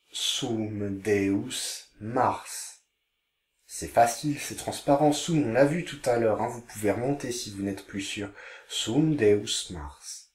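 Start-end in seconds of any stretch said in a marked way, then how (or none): 0.1-2.8 slow reading. Shown as a demonstration. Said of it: "Je vous lis les phrases". 8.7-10.3 slow reading. Shown as a demonstration. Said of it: "Je vous lis les phrases".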